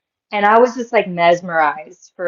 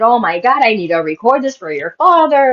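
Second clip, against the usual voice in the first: higher, louder mock-frantic mother; excited fluster; 5 semitones higher, 5 dB louder than usual. Mother hunting camcorder during UFO sighting, excited fluster. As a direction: imitate a mother worked up over what she sees.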